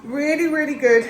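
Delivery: slightly breathless from a chest infection; out of breath. Real, not acted. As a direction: speak while short of breath. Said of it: "I'm still a little bit out of breath".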